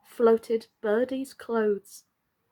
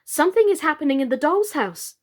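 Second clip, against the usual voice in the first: quick, urgent and a bit higher; 4 semitones higher, 4 dB louder, faster than usual. Acted. Charlotte warning Emily about the doll's house, urgent. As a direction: rush it out in alarm. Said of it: "said Charlotte suddenly".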